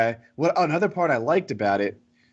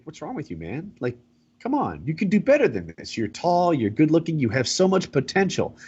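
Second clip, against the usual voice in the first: put-on a light French accent on a coach's pep talk; a hint of French accent, urging him on; 4 semitones higher than usual. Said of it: "in this French accent".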